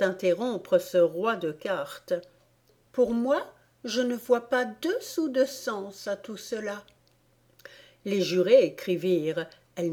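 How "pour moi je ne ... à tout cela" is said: lightly voiced Alice, pitched higher; outspoken Alice. A narrator's reading. Alice giving the court her opinion of the poem, outspoken. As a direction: give a higher-pitched, dismissive verdict.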